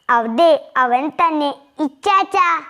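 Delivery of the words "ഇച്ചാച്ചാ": first call raised high after the passing car; calling out loud. A narrator's reading. Girl spotting her brother in the car, calling out. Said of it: "അവൾ ഉറക്കെ വിളിച്ചുകൊണ്ട്".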